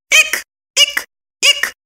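high, deliberate fake hiccups. A narrator's reading. Sister fakes hiccups on the phone, high and deliberate. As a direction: hiccup on purpose, overdone. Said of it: "старательно заикала она".

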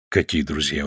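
normal talking voice

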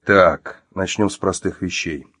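controlled, understated irritation; restrained anger. Acted. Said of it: "сдерживая злость".

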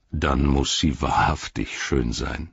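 composed, unhurried reply; measured Faramir. Acted. Faramir answers Sam's rapture.

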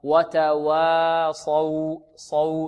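"وتواصوا" drawn out slowly with light waws. Shown as a demonstration. Teacher models correct recitation, slow light waw in "وتواصوا". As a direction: stretch "وتواصوا", keeping each waw thin. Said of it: "وإخراجها مرققة هكذا".

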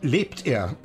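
an indignant father defending his principles, voice climbing; heated outburst. Acted. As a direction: argue it out, rising in anger. Father argues heatedly about son.

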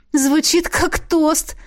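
high, slow amused remark. A narrator's reading. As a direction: say it as if about to laugh. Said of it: "рассмеялась я". (весело, со смешком)

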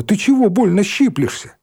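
high hurt cry; startled outcry. A narrator's reading. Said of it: "и крикнула".

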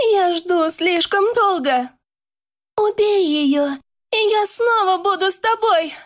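a ghostly, demonic command; possessed voice. A narrator's reading. Possessed Karina speaks.

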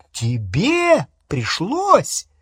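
whispered, slow, outraged; stunned hissed question; incredulous hiss. Acted. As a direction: hiss it in disbelief. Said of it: "Голос у Гермионы всё повышался".

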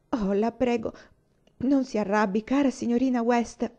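put-on a child begging not to be scolded; imploring. Una begs Miss West not to be angry, imploring. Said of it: "la implorò Una".

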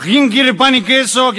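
put-on slow, loud, menacing drunk taunt; drunk bully. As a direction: drag out the question like a threat. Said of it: "No arrancaba". (borracho violento desafiando a todos, lento y fuerte)

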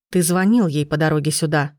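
ordinary delivery, nothing marked

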